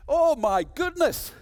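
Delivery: high, loud, slow cry of dismay; appalled exclamation. Real, not acted. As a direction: stagger back at how bad it is. Discovering the bad campaign.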